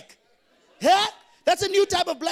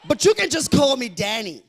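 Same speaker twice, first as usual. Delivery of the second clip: mock posh guy; 5 dB louder than usual. Posh guy introduces himself.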